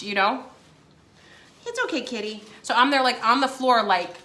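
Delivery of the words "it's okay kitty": soft aside to a cat; softer, comforting murmur; soothing a pet. Real, not acted. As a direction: gently reassure the kitty, voice lowered.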